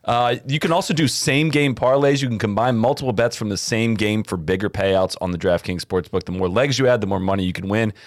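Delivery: upbeat sponsor read. Acted. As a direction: sell it like a radio spot. Reads sponsor ad copy.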